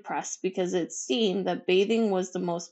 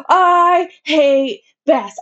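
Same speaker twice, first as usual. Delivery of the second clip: slow, high, shrill shriek; screaming tantrum; 8 semitones higher, 13 dB louder, much slower than usual. A narrator's reading. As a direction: stretch each word into a furious yell. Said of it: "and yelled".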